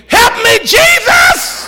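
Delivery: high, loud shout for help; desperate cry. Retold or imitated. Son under a whipping shouting for Jesus. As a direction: yell out like a boy being whipped. Beaten boy cries out.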